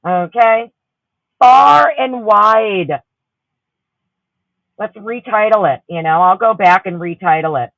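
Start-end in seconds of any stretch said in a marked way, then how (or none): 1.4-3.0 far and wide shouted slowly, each word stretched; shouted slogan. Real, not acted. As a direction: belt it out like a rallying cry. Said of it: "we could spread it far and wide".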